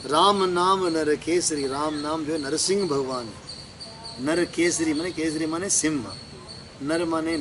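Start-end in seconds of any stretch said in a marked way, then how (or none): 0.0-1.6 slow, measured scripture quote; verse recitation. Real, not acted. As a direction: recite the line slowly before explaining it. Recites verse before explaining it. (धीमा चौपाई पाठ)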